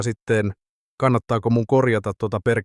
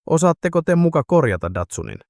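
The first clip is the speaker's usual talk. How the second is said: incredulous; 7 semitones higher, 3 dB louder than usual. Acted. Sami doubts the drunks' skills.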